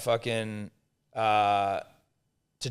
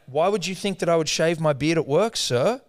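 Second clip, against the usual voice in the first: indignant; 3 semitones higher than usual. Retold or imitated.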